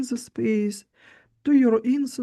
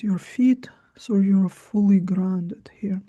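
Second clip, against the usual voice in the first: mesmerizing. Acted. Guided meditation closing.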